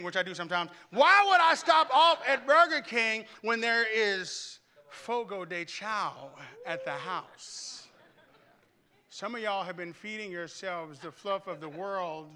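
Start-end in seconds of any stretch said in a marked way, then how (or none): 0.9-7.9 loud, high, slowed rhetorical question; mock outrage. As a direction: ham up the absurdity.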